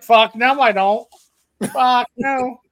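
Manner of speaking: shouted fuck no; loud refusal. Retold or imitated. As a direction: yell it, refusing. Acted refusal.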